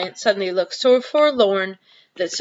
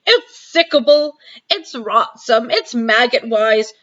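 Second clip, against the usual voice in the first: higher, louder giant relishing disgust; 3 semitones higher, 4 dB louder, slower than usual. Acted. Giant offering Sophie the vile vegetable, disgusted. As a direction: savour every foul word.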